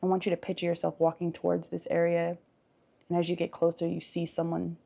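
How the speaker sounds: measured visualization with lingering pauses; guided meditation. Acted. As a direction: gently lead them through an imagined scene. Leads a guided forest visualization.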